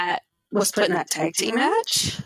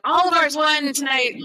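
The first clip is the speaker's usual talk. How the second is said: mock gloating shout; 6 semitones higher than usual. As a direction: crow it like a proud brother. Retelling the brother's boast.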